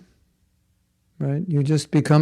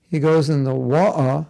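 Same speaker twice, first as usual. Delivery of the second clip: mock Cockney. Shown as a demonstration. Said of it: "a certain street of England".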